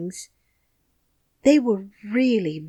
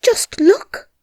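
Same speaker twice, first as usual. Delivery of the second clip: high excited whisper; urgent, thrilled whisper; 14 semitones higher, 8 dB louder than usual. A narrator's reading. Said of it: "he whispered excitedly".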